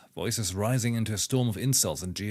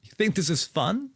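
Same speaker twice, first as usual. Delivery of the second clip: higher, louder mocking imitation of Riss's outburst; mock Riss rant; 9 semitones higher, 4 dB louder than usual. Streamer mocks Riss as if ranting about soccer, hammed-up shout. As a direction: parody her yelling like an angry soccer fan. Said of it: "this is her speaking about soccer".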